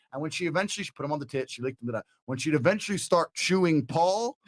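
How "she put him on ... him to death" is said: usual speaking voice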